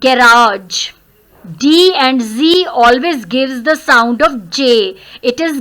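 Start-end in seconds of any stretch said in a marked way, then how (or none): 0.0-0.9 "garage" with a long second A; lengthened A. Shown as a demonstration. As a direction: draw out the last vowel of "garage". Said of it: "इस sound को हमने थोड़ा सा लंबा करना है". ("garage" में दूसरे A को थोड़ा लंबा करके)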